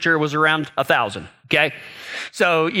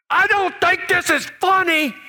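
laughing protest; 11 semitones higher than usual. Retold or imitated. Dad after the scare, laughter.

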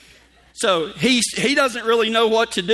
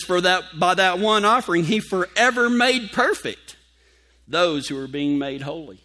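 scripture reading. Acted.

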